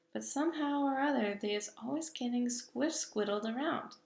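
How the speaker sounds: the giant sighing over his words; lightly voiced big friendly giant, wistful. Giant character voice.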